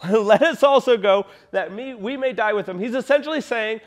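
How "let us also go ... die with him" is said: Thomas's line broken up by a laugh; can't keep a straight face reading it; laughing through the quote. Acted. Preacher chuckles while retelling Thomas's grim words.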